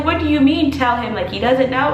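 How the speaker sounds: high-pitched incredulous question, imitating mom; mom's disbelief. Imitates mom's incredulous reply on phone.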